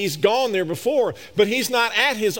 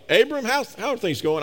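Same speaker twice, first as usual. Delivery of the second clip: facetious casual chat; 4 semitones higher than usual. Pretend. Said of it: "I'm being facetious now".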